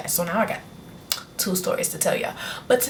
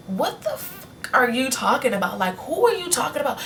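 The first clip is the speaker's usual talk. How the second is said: mom scolding; 6 semitones higher than usual. Retold or imitated. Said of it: "she was like".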